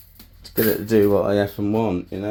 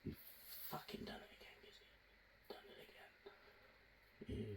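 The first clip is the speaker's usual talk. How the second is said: whisper; 2 semitones lower, 32 dB quieter, much faster than usual. Real, not acted. Hushed self-praise.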